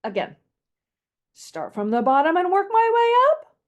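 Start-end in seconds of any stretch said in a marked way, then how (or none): 1.3-3.6 ascending melody. Shown as a demonstration. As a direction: climb the pitch through the phrase. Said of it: "That's ascending".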